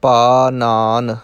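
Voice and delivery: ਪਾਨਾਨ with plain dental n, vowels drawn out. Shown as a demonstration. Teacher demonstrates ਪਾਨਾਨ slowly with dental n. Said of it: "ਨੰਨੇ ਲੱਗੇ ਹੈ".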